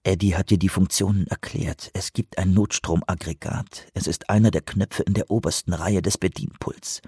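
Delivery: soft inner voice; calm yourself under your breath; inner thought. Acted. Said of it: "dachte er".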